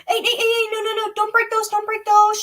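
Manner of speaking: loud, high, urgent stop; urgent shout. Real, not acted. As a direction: halt them before they break it. Stopping child breaking sunglasses.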